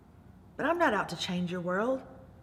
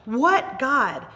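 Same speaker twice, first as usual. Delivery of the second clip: What God said loud, What stressed with a falling tune; emphatic question; 2 semitones higher, 6 dB louder than usual. Shown as a demonstration. Preacher shows the congregation the new question, loudly. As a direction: punch the word What. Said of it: "makes no sense".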